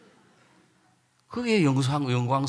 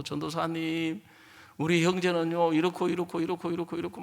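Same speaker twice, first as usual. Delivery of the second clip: mock complaint. Sister telling the evangelist on her husband, subdued complaint. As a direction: reel off a wife's complaints in a subdued voice.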